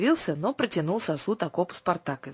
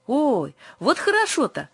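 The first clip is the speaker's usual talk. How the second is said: slow, higher, louder happy cry; delighted exclamation; 9 semitones higher, 4 dB louder than usual. A narrator's reading. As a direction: burst out pleased. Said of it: "воскликнул продавец". (радостно воскликнуть)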